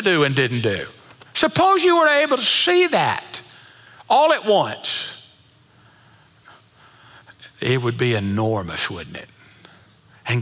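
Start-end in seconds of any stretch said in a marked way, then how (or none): 1.3-5.2 rising climax. Real, not acted. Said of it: "preacher building to climax".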